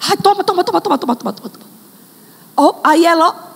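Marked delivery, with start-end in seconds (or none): 0.1-1.7 mother giving in. Acted.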